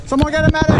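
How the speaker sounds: high, loud call for a medic; man down shout. Real, not acted. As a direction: yell for help across the field. Hit, calling for medic.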